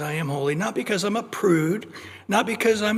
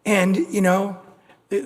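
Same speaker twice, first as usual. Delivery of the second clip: ordinary talk, nothing marked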